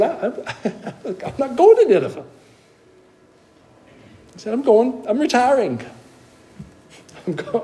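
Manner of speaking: high, fast, giggling runaway prophet; laughing Jonah. Retold or imitated. Preacher playing Jonah dreaming of the beach, laughing and high. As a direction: chuckle through it like a kid skipping school. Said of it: "Jonah said".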